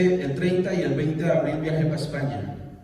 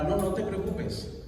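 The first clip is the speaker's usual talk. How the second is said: lightly voiced wife, raised pitch; 4 semitones higher than usual. Wife reassuring husband by phone, lightly voiced. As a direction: imitate a breezily reassuring phone reply.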